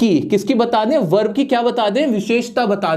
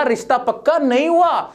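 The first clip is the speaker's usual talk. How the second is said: normal talking voice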